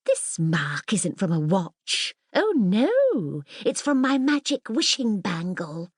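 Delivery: grandly. Acted. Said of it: "looked at her grandly and said".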